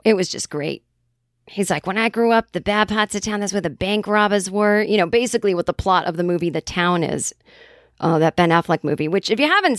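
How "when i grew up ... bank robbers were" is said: put-on Boston accent. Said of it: "talking in our Boston accents".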